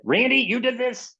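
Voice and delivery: teacher doubting a pupil's homework, sceptical; doubtful teacher. Retold or imitated. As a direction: question the kid with disbelief. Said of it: "She said".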